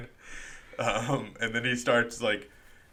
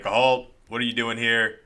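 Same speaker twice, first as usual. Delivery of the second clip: mock guard challenge; 4 dB louder than usual. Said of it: "Sinister Sentry who's like".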